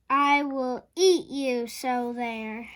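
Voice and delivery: loud threatening roar. A narrator's reading. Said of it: "he roared".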